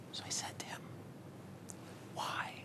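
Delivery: very soft whispered question. Acted. Student playing along with the rabbi, whispering. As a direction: whisper back, barely audible. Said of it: "you should whisper".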